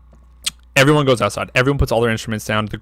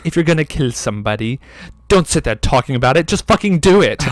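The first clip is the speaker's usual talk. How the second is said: impatient film quote; 3 semitones higher, 4 dB louder than usual. Retold or imitated. Film character's impatient line, acted.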